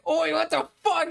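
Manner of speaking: mock high-pitched freakout; panicked squeal. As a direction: squeak it out like a startled man. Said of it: "He's like".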